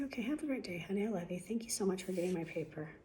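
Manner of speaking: soft, sugary, pointedly nice; passive-aggressive sweetness. Retold or imitated. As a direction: thank him sweetly with a barb. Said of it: "Passive aggressive?".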